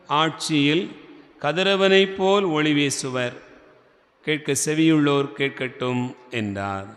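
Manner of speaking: measured, formal reading with clear pauses; scripture reading. Real, not acted. Priest reads the Gospel to the congregation, formal proclamation. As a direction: proclaim the passage phrase by phrase.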